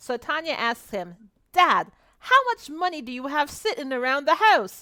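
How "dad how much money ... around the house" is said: put-on raised, pitched-up English accent slipping in. Retelling a story, voicing a daughter's question to her dad: English-sounding accent. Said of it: "you sounded more like you were on the other side of the pond".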